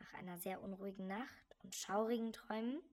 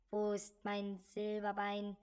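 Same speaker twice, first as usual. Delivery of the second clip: count's ghostly voice; 6 dB louder than usual. Acted. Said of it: "hörte er den alten Grafen sagen".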